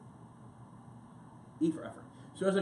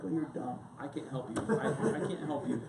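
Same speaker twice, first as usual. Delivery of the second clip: laughing put-down; 3 semitones lower, 3 dB quieter than usual. Retold or imitated. Laughing at knife owner.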